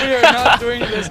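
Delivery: mock exasperated.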